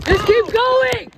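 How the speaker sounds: loud slow call across the field. Real, not acted.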